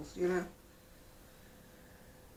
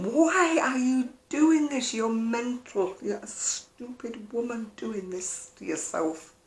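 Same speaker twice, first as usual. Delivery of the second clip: inner scolding voice; 4 semitones higher, slower than usual. Retold or imitated. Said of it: "my brain is going".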